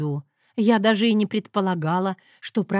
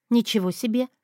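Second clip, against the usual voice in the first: plain reading voice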